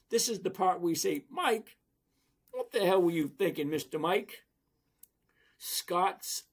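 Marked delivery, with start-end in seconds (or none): 1.3-4.4 loud, playful telling-off; mock scolding. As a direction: scold him in jest, hitting the name hard. Mock scolding of Mike over his pick.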